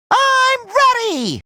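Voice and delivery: high, drawn-out gleeful call; high, slow, excited holler; eager battle cry. Acted. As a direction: sing out your readiness, stretching both words. Catchphrase called out eagerly.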